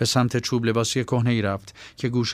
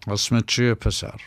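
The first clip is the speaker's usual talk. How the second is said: calm, composed question. Acted. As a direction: ask gently, in no rush at all. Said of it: "با صدای آرام و با طمأنینه پرسید".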